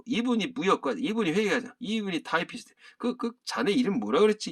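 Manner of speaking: ordinary talk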